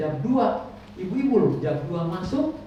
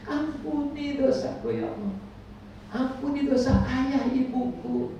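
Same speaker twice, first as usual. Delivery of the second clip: heartfelt prayer; 3 semitones higher, 4 dB quieter than usual. Retold or imitated. Pilgrim's prayer at the Prophet's place.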